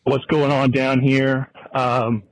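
breathless while walking; out of breath. Real, not acted. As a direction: talk while out of breath on a walk. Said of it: "I might be a little out of breath".

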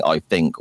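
"think" said as "fink", F replacing TH. Shown as a demonstration. Podcaster cringing at his own playback, "think" said as "fink". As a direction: put an F at the start of "think". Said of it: "it just comes out as an F".

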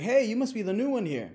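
a chirpy barnyard welcome; rooster voice. Retold or imitated.

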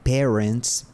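"parents" said as PEH-rents with a rising end; slow, careful "parents" with the E of "pair"; pronouncing "parents". Shown as a demonstration. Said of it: "pero se lee como".

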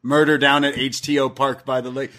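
normal talking voice

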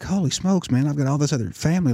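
high, amazed exclamation. Retold or imitated. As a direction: marvel at the family you just found. Amazed at new family.

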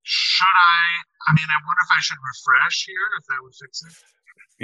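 phone voice. Real, not acted. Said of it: "you sound like you're f-, coming from a phone".

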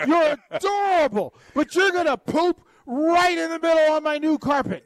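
talking to a puppy. Retold or imitated. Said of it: "and just say".

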